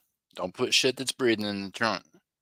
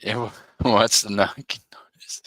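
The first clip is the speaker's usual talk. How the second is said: whispered aside; 4 dB louder than usual. Pretend. Joking whisper about trunk.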